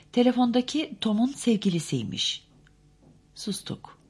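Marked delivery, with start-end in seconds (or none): none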